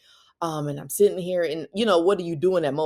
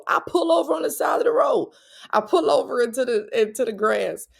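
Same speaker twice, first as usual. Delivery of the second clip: much higher and louder, almost shouting; excited exclaiming; 9 semitones higher, 5 dB louder than usual. Real, not acted. Mom telling how she pulled the car over, excited near-shout. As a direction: burst out with the urgency of the moment.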